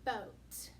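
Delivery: "Boat" with a long o; correct "boat". Shown as a demonstration. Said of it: "what is that supposed to say?".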